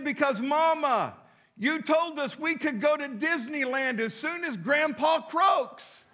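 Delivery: put-on high, earnest child voice; innocent little girl. Granddaughter answering her mama, high innocent child voice. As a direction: sweetly explain it like a small child.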